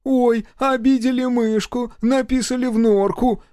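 high, slow mock-pity; mincing, high-pitched taunt; clowning mockery. A narrator's reading. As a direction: tease in a high, drawn-out sing-song. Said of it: "кривляясь, подкинул я".

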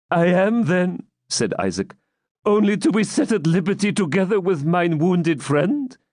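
put-on high, worried old man; anxious old man. Captive asking the baron for surety, anxious. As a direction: ask fearfully for a pledge. Isaac asks.

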